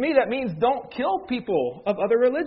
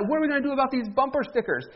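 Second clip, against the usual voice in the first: quick, higher mock of an upset friend; upset friend, rushed; 6 semitones higher, faster than usual. Pastor retelling his irate friend's fast complaint. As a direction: rattle it off like a worked-up buddy. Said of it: "he's upset".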